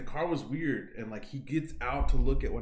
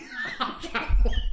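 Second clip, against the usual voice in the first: high, loud, breaking into laughter; laughing mock shriek; retold scream; 12 semitones higher, 7 dB louder than usual. Telling how the door closed on their legs, laughing mock scream. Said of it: "I'm, like, screaming".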